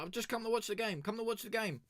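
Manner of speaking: high, squeaky pleading; mock pleading. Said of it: "I was like".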